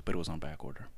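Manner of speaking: unvoiced whisper. Telling Jasmine the bad news in a whisper. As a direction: breathe it like a secret. Secret complaint told to friend.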